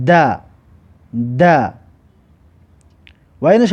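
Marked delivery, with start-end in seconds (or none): 0.1-1.7 "د" sounded as "da"; dal with fatha. Shown as a demonstration. Teacher models dal with fatha for learners, "د" as "da". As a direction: say "د" as a separate open "da".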